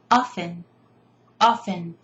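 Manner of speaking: "Often" with no T sound, as OFF-en; silent T. Shown as a demonstration. Teacher showing how to teach the word, silent T in "Often". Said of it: "I teach this word like this".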